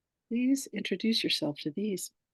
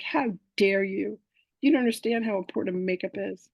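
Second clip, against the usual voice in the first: mock indignant; 2 semitones higher than usual. Woman scolding the man making fun of her, mock indignant. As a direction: play offended, stretching the opening words. Retold quarrel over being made fun of.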